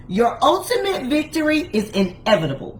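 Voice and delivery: emphatic, assured declaration with attitude. Real, not acted. Preacher promising listeners victory, with attitude. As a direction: declare it like you fully mean it. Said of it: "I say that with attitude 'cause I mean it".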